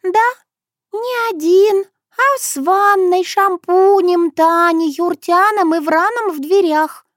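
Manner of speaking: a distinct high figure explaining; Shushana voice. Acted. Shushana telling Sokolovsky about the fight, high.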